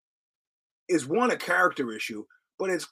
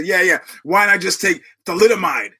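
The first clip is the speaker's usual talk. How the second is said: mock exasperated retort; 3 semitones higher, 9 dB louder than usual. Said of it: "And I say".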